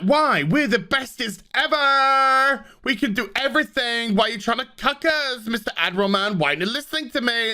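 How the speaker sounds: high, hammed-up whiny crew voice; smug mock crew. Mocking the crew's smug reply to the Admiral, high and whiny. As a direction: sneer it like a spoiled brat.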